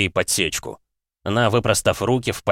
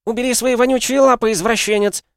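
очень высоко и громко; вырывается и визжит на обидчика; визгливый крик; 5 dB louder than usual. A narrator's reading. Настя вырывается, кричит. (истошный визг)

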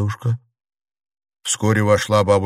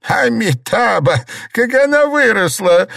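much higher and louder delighted cry; exclaim; 13 semitones higher, 6 dB louder than usual. A narrator's reading. Old Liu seeing the grown girl, delighted exclamation. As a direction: burst out in joy at the girl. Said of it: "воскликнула старуха".

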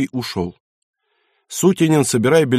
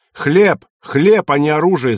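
loud, high outburst with HLEB punched; shouting; 4 semitones higher, 5 dB louder than usual. A narrator's reading. Baron shouting at his son over bread, loud and high. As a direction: yell the word at him. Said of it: "закричал старый барон".

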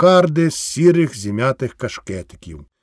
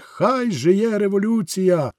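rallying cry; 5 semitones higher, slower than usual. Acted. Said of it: "гукали".

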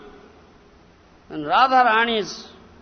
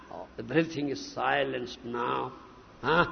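ordinary delivery

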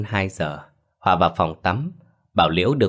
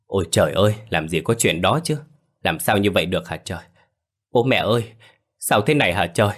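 feigned wailing. Acted. Liễu arriving home to police, fakes shocked wailing. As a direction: put on a show of shocked grief. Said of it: "đã bù lu bù loa lên".

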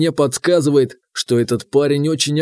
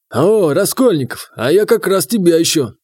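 forced smile; 3 semitones higher than usual. Acted. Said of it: "натянуто улыбнулся Бестужев".

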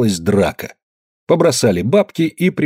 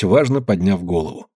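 plain reading voice

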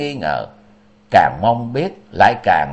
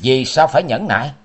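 a firm raised roar of refusal. Acted. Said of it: "Liễu Kiệt gầm lớn".

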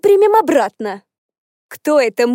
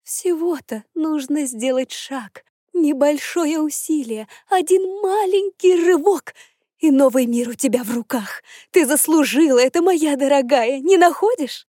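coaxing; 3 semitones higher than usual. Acted. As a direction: lull her gently into agreeing. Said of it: "Голос тёти подчинял, убеждал и убаюкивал".

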